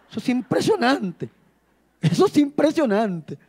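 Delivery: laughing. Real, not acted. Laughing at his own joke.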